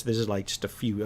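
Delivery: ordinary talk, nothing marked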